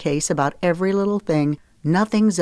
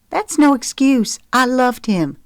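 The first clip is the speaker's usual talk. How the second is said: higher, louder, vehement protest; 8 semitones higher, 4 dB louder than usual. A narrator's reading. Zoe defends her old love to Mama, vehement. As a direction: insist with heat. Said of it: "she said vehemently".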